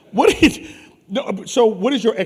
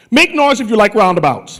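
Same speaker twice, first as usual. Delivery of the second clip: calling out; 5 dB louder than usual. Real, not acted. Host calls out to the crowd.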